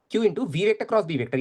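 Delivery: very slow, each term separated; slow dictation. Shown as a demonstration. Teacher reminding students of the force formula, drawn out slowly. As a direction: lay out every word of the formula. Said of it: "क्या होता था, याद कर".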